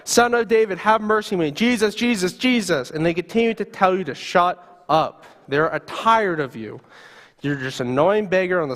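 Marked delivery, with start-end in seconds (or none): 0.1-2.9 yelling out. Acted. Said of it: "You continue to yell".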